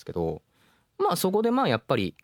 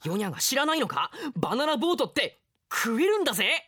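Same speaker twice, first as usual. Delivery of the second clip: higher, playful know-it-all; teasing boy; 12 semitones higher than usual. Acted. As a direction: brag to tease your friend. Boy teases about bananas.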